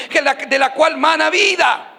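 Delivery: shouted, slowed climax; slow, ringing preacher's shout; preaching shout. Real, not acted. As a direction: cry it out slowly to the church.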